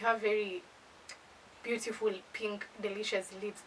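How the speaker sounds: soft, halting flirtation; retold sweet talk. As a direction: imitate a date murmuring compliments. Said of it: "very sweet words".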